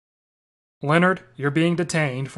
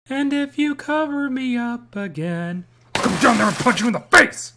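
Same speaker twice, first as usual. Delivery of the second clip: angry threat; 6 semitones higher, 4 dB louder than usual. Acted.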